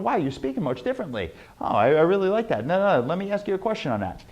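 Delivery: quick, casual, interested reactions; hurried, lightly acted interest; impressed listeners. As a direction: toss off an intrigued listener's remarks.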